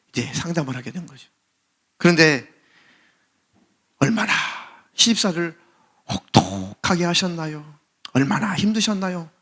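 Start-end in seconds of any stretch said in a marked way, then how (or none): 4.0-9.3 gently paced sympathy, slowing midway; acted soothing doctor; consoling doctor. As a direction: console a patient, unhurried. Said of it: "이 위로해 주니까".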